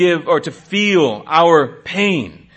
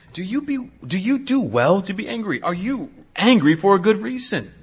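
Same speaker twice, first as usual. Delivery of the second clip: soft, level, probing question; God's quiet question; 3 semitones higher, 4 dB quieter than usual. Retold or imitated. God asking Jonah, soft and searching. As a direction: gently ask him to look at his anger.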